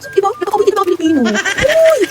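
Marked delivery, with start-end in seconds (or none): 1.3-2.0 high loud "Uy!" yelp; excited shout. Real, not acted. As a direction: burst out playfully. Sudden exclamation to viewers. (masiglang sigaw ng "Uy!")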